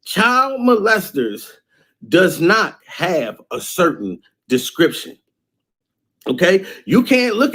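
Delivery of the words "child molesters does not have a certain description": each word laid out slowly and deliberately; slow down and drive it home to the mothers; slow emphatic warning. Shown as a demonstration. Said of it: "I want to repeat this again".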